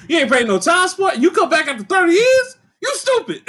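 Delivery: mock barbershop outrage; mock outraged barber. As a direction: pitch climbing high into a squawking scold. Barbershop character scolding, retold.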